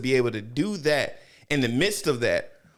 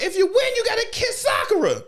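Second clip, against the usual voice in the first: mock shout; 3 dB louder than usual. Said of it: "He was like".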